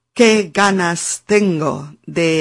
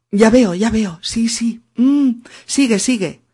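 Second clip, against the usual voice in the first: mock listener; 5 semitones higher than usual.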